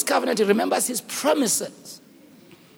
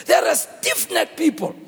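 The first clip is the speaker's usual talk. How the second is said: higher, indignant verdict; angry God; 5 semitones higher than usual. Acted. God judges the idol makers, angry. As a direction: condemn them with some heat. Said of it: "He's very angry".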